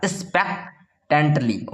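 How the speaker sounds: "expectantly" stretched out chunk by chunk; "expectantly" split into long, careful syllables; slow pronunciation demo. Shown as a demonstration. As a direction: say "expectantly" very slowly for pupils to copy. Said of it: "इस प्रकार बोलिएगा".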